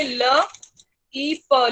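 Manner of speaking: ल ई प sounded out slowly, one sound at a time; slow phonics sounding out. Shown as a demonstration. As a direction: break ल ई प into separate sounds. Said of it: "लिप बोलेंगे". (ल ई प को धीरे-धीरे अलग-अलग आवाज़ों में बोलें)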